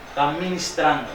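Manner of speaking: "ministrando", begun straight on the M; correct word ministrando. Shown as a demonstration. Preacher correcting the congregation's word, "ministrando" said clearly. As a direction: say "ministrando" with no "ad" in front. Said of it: "no es administrando, está ministrando".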